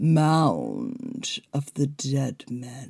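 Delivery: spooky, deep baritone, swooping, "Mound" drawn out. Practicing a creepy voice with friends, deliver the phrase in a baritone voice. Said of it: "Need to get that baritone in there".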